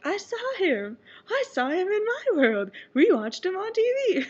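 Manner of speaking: bursting out giggly and thrilled; excited. Retold or imitated. Telling everyone she saw him on TV, excited laughing. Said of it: "I'm like".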